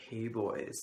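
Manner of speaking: lightly imitated flamboyant greeting; drawn-out, mildly campy hello in imitation; flamboyant teacher. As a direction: put a touch of flamboyance on it. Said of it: "super flamboyant voice".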